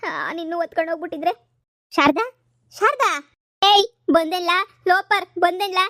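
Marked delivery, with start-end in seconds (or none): 2.0-3.3 loud call across the house; frantic loud calling. Acted. Wife calling out to Sharada. 3.6-5.8 loud, slow, angry tirade; furious wife's loud rebuke; angry scolding. Acted. Wife scolding husband who returns.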